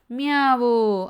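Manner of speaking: loud, drawn-out storybook mew; lightly voiced kitten cry; kitten meowing.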